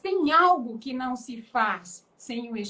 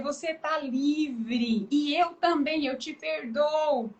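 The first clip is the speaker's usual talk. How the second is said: forgiving words; 4 semitones higher, slower than usual. Acted. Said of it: "voltar em quem me feriu e dizer".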